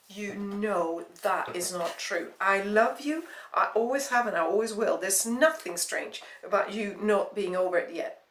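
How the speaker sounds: earnest insistence. Acted. Ex insists he still loves her.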